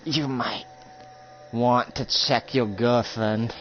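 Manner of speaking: slow, soft menacing taunt; softly gloating, slow; slow villain taunt. Acted. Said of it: "And then he says".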